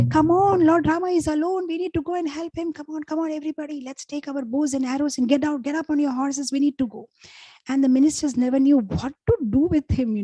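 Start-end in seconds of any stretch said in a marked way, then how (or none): 0.1-7.1 high, urgent battle cry without full volume; mock shout rousing the troops, pitched up; retold rallying shout. Excited king urging soldiers to help Rama, retold high-pitched shout. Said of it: "used to shout at his soldiers".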